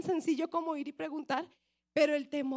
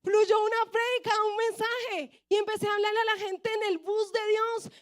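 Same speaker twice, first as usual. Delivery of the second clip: crying through speech; 6 semitones higher, 5 dB louder than usual. Real, not acted. Moved while recalling preaching.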